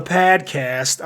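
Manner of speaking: "podcast" said like "pad-cast"; imitated podcast vowel. Imitating Bill Burr on his podcast, "podcast" as "pad-cast". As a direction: flatten the first vowel of "podcast" toward "pad". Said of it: "how does he say it?".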